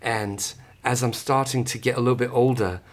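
put-on a light, casual British accent, asked for; playful put-on British accent. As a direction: answer the question in a lightly done British accent. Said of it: "in British?".

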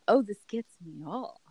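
lightly voiced character impression; a hint of a put-on persona; Samantha voice. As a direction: put on a slightly different character voice. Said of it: "That's my Samantha voice now".

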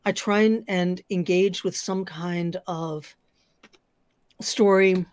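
talking while crunching chips. Real, not acted. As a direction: speak between bites of chips. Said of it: "I'm sorry about the crunching".

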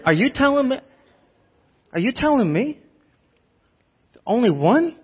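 incredulous tough-guy impression, pitched high; De Niro. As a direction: challenge them like a movie tough guy. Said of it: "Do you hear it in De Niro".

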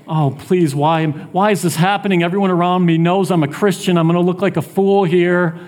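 hurried, mildly distressed complaint; imagined anxious plea. Acted. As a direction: rush out the worry, imitating a young believer. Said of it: "You might be in a situation and it's like".

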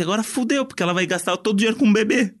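high alarmed outburst. Retold or imitated. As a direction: say it in sudden panic. Retold panicked reaction.

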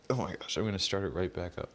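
teeth chattering in the cold; shaky from the cold; shivering. Real, not acted. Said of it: "My lips are freezing".

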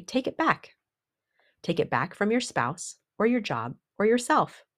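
high, rousing command; booming motivational speech. Acted. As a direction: urge them to take it back. Urging listeners to reclaim power.

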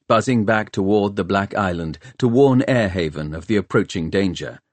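ordinary delivery, nothing marked

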